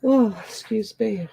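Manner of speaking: mid-yawn apology. Real, not acted. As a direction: say it through a yawn. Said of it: "I'm yawning".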